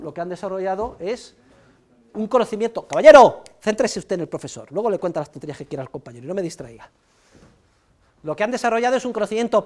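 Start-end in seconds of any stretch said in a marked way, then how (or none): 2.9-6.9 loud sharp call to a student, then a stern rebuke; a lecturer calling a talking student to order, stern; scolding a student. Real, not acted. Teacher scolding a chatting student.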